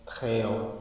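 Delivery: measured poem reading, each line set apart by a pause; unhurried classroom poem recital; poetry recitation. Acted. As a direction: recite slowly, lifting each new verse and easing off on the repeats. Recites the poem a second time.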